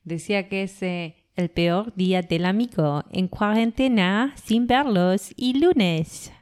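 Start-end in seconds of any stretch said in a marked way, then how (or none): 1.3-6.3 put-on French accent. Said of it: "ese es mi acento francés".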